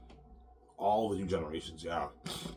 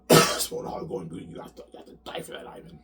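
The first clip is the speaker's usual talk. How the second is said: threatening whisper; 7 dB louder than usual. Retold or imitated.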